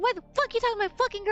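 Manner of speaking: mock going off. Boyfriend warning the creep off his girl, mock angry. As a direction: act out an angry, possessive boyfriend in a rush. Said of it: "going off on him".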